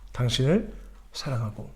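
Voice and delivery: soft whisper of love; whispered blessing. Shown as a demonstration. Pastor shows how to confess love, whispered blessing. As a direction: breathe it gently as a blessing.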